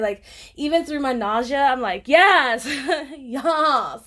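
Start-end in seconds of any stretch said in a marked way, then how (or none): 2.1-4.0 laughing, near-tearful yes, loud and high; overjoyed, almost crying with laughter; real excited squeal. Real, not acted. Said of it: "I'm so excited".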